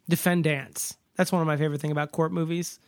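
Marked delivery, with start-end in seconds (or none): 0.1-1.0 "Defendants" with a full "ants" at the end; "Defendants" with the last vowel unreduced; courtroom pronunciation. Shown as a demonstration. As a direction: say "Defendants" ending in a clear "dants", rhyming with "pants". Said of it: "They say defendant".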